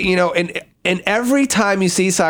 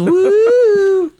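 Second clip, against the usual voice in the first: excited whoop; 5 dB louder than usual. Acted. Cheering whoop.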